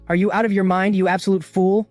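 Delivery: high, loud scolding of a fool; furious rebuke. A narrator's reading. Enraged father yells at his reckless son, high and loud. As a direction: tear into him.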